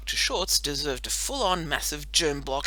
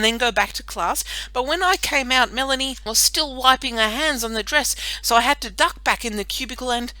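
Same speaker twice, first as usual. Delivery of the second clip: put-on boy's voice; 7 semitones higher, 6 dB louder than usual. Rory explains, voiced character.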